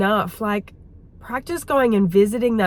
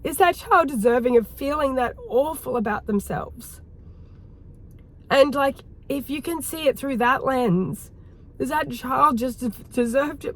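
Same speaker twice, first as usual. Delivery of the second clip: tearful; 3 semitones higher than usual. Real, not acted. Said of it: "oh my God, I'm crying again".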